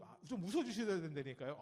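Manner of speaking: normal talking voice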